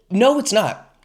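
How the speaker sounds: whispered flat contradiction; a whispered aside; whispered retort. Real, not acted. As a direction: breathe the denial out unvoiced. Quick rebuttal aside.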